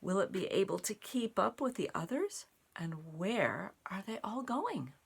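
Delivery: curious storybook question; reading to children. A narrator's reading. Asking the children what the tiny seed will do, curious storytime voice. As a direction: wonder aloud with the kids. Reads picture book aloud.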